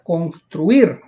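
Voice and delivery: construir with weight on the final -IR; stress on last syllable. Shown as a demonstration. Teacher repeating construir as an aguda example, stressed last syllable. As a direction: lean on the end of construir, then fall. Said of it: "Lleva la mayor fuerza de voz".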